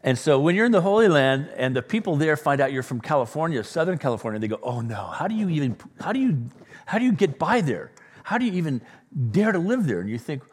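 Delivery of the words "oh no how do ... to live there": higher-pitched imitation of astonished locals; mock aghast. Locals aghast at visitors from Southern California, mock aghast. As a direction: act out appalled disbelief, pitch lifting.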